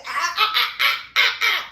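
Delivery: high, loud staccato interruption; mock shushing, repeated short bursts; cutting her off. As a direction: cut someone off mid-sentence. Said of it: "Ash cuts her off".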